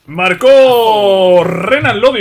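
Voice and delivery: slow, drawn-out commentator call; measured, elongated goal call; goal announcement. Real, not acted. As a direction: stretch out the scorer's name as an announcer.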